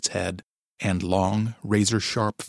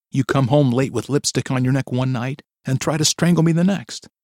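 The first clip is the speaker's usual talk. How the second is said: accusing; 5 semitones higher, 6 dB louder than usual. A narrator's reading. Wife accusing husband.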